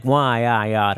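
mock cartoon grumbling; mad cartoon character. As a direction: fume into a comic mumble. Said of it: "characters used to get mad".

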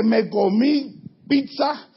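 slow, emphatic food list; listing the feast. Acted. Preacher voicing the psalmist listing every food, slow and emphatic. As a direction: stretch out each dish.

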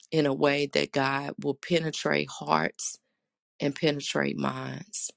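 earnest spoken prayer. Acted. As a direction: pray aloud to the congregation. Leads an opening prayer.

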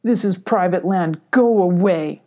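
lightly voiced hostile badger; understated badger threat; hissed menace. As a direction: warn the intruder off, firm. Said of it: "the badger hissed".

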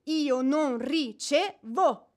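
very slow, each word set down firmly; flat refusal. Acted. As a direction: refuse with icy finality. Widow refuses a visitor.

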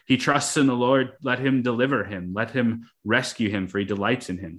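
a light touch of scorn on the taunt; mocking. Preacher reading the mockers of the psalm, mild mocking tone. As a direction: read the mockers' taunt with a hint of sneer. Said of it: "So that's said in a mocking way".

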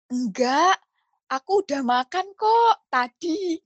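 thick, drawn-out Javanese lilt; slow, sing-song Javanese-accented Indonesian. Shown as a demonstration. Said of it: "bahasa Jawa logatnya gini".

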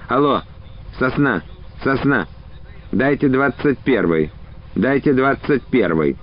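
thin strained voice into the receiver; faint rasp, talking down a phone line; weak hoarse voice. Acted. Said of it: "слабеньким, надорванным с хрипотцой голосом".

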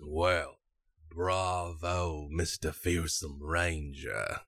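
lightly voiced scoundrel giving mock praise; game runner's scoundrel. Scoundrel congratulates the ranger on his ring toss, lightly teasing. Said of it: "And he goes".

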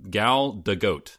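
GADOT with a long, rounded O and final T; very slow Gal Gadot, stretching the O; drawn-out O in Gadot, closed with a T; overdone O. Real, not acted. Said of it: "overdoing the O sound".

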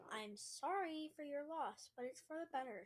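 mildly soothing, unhurried delivery; calm voice. Acted. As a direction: break bad news calmly. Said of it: "girl in a calm voice".

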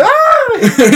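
high mock scream of fright, half laughed; high-pitched fake scream. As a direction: squeal like you got jumped, laughing. Scream in robbery retelling.

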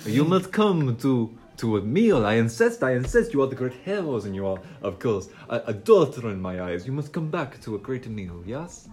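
put-on insistent Italian-accented host; Godfather-like ringmaster. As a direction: press the invitation with theatrical Italian accent. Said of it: "This has gone so Godfather".

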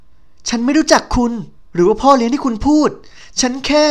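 a lightly voiced hurt young woman explaining; pleading explanation. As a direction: try to explain while hurt. Heroine tries to explain, hurt.

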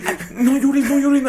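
high soothing mom voice; mock mother. Mother hushes her crying little boy, high mock mom voice. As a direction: hush the crying kid like a mom.

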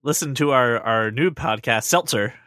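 lightly voiced Jewish grandmother; a hint of an old Jewish lady; old Jewish woman voice. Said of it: "You say seltzer in a Jewish woman's voice".

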